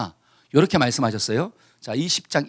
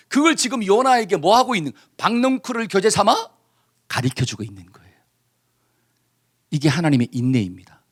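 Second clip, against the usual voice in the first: ordinary talk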